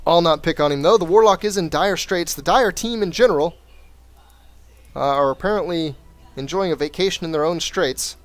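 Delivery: lively esports caster narrating the match; play-by-play commentary. Acted. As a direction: call the game like a caster. Casting a replay like commentator.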